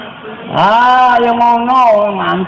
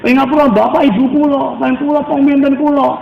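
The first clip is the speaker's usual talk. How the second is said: a hint of a weeping sinner pleading, pitched higher; tearful prayer; 5 semitones higher than usual. Preacher acts out a sinner begging God for forgiveness, mildly tearful. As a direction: plead to God like someone about to cry.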